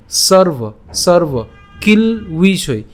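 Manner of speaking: "সর্ব কিল উইষয়" very slowly, word by word. Shown as a demonstration. Teacher explains the semivowel, slow "সর্ব কিল উইষয়". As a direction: stop on kil, then open "উইষয়" with an u glide. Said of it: "উচ্চারণটা উ এর মতো হবে".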